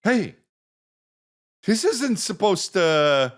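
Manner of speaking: retold weepy squeak, slow at the end; choked-up crying voice. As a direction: caught off guard and welling up. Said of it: "and I start crying".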